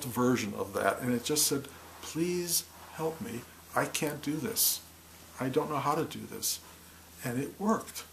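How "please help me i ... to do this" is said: mature pleading. Retold or imitated. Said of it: "an element of crying, but it was mature".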